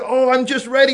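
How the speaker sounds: very high, loud tearful pleading; imitated crying. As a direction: plead like an upset, crying boy. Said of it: "And he was crying".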